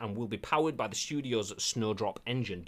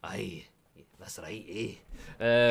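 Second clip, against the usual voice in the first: put-on Scottish accent; 3 semitones lower, much slower than usual. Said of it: "I love the Scottish accent".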